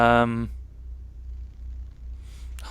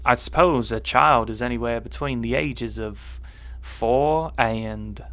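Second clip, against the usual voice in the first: lightly put-on Southern American; American accent. Reasoning out an answer for viewers, in American accent. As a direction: keep up the attempted American twang. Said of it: "I've got to do this in American".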